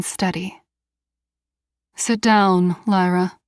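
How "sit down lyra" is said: a hint of cool boredom, unhurried; calm, almost bored. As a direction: order it like it barely interests you. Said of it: "Her voice is calm, almost bored".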